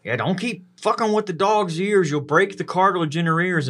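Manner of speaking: lightly voiced dad telling him off; mild mock stern father; dad's warning. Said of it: "my dad would always be like".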